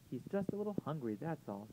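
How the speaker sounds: put-on high, soft little girl; lightly voiced young girl. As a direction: speak up sweetly as a small child. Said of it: "said Alice Jane".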